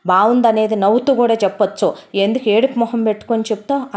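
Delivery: a wife raising her voice at her husband; scolding wife. Acted. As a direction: nag him loudly for sulking. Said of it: "అరుస్తున్నావేంటే?".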